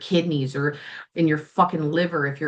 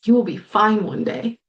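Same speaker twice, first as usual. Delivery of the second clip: real tears rising, voice lifting; starting to cry; 3 semitones higher than usual. Real, not acted. Host reassures grieving viewers while tearing up. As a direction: say it as the crying breaks through. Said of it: "Apparently, I'm gonna cry again right now".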